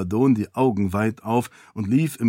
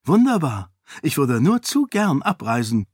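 higher, bright mock eagerness; feigned delight; 4 semitones higher than usual. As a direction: pretend to be glad to leave. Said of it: "log sie". (gespielte Freude)

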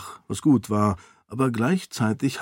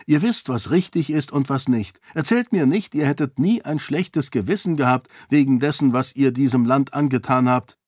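put-on raised, earnest young woman's voice, arguing her case; a princess pleading for the peasants, lightly higher; Sarene, persuasive princess; 3 semitones higher than usual. Sarene contradicts Roial. (Sarene, eindringlich und höher gesprochen)

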